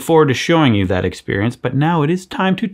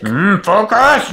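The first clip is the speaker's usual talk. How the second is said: slow, put-upon focus; mock upset; 6 semitones higher, much slower than usual. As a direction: say it like it bothers you. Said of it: "I got upset about that focus".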